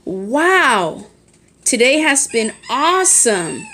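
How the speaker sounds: mildly excited example sentence, rising on "awesome"; strong feeling. Shown as a demonstration. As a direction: demonstrate an exclamation with measured enthusiasm. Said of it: "it emphasizes a strong feeling".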